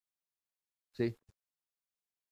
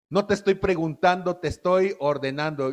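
imitating a bossy little ordering tone; bossy command. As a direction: demand it like a spoiled child giving orders. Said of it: "el tonito así de". (tono mandón de niño caprichoso)

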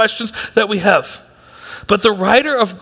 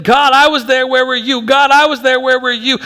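raised, repeated plea to God; crying out; 3 semitones higher than usual. Retold or imitated. The writer crying out to a silent God, raised plea. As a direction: call out to heaven again and again. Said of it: "crying out".

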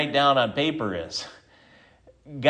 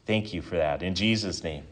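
measured prayer with long pauses; closing prayer; 3 semitones lower than usual. Real, not acted. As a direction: address God simply, pausing between phrases. Leads closing prayer after sermon.

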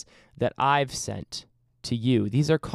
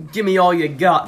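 mock Australian accent; 2 semitones higher, 6 dB louder than usual. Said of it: "That's not Australian".

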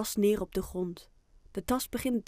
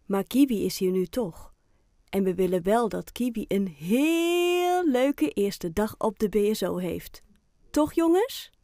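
a lightly voiced cheerful teacher, louder; encouraging Debbie; 6 dB louder than usual. Teacher rallying the class for the pet, mildly hammed-up encouragement.

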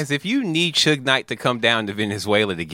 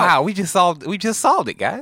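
excited triumph; 7 semitones higher than usual. Pretend. Mock celebration of solving it.

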